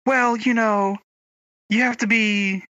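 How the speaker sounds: mimicking coworkers. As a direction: imitate them, pitched well up. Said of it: "they're all like".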